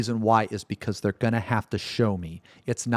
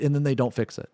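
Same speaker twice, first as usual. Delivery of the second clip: ordinary talk, nothing marked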